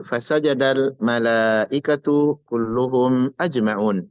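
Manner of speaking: slow, measured recitation of the verse; Quran recitation. Shown as a demonstration. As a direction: recite the verse slowly and reverently. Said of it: "Allah berfirman".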